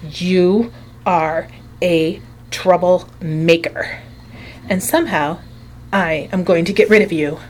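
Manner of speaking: cold angry threat. Acted. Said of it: "looked down at me with angry eyes".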